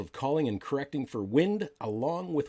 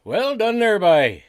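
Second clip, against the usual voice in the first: excited; 8 semitones higher, 12 dB louder, slower than usual. Real, not acted. Cheering the accented ad read.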